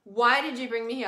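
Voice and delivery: mild retold tearful cry; retold crying plea. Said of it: "I was bawling my eyes out, crying".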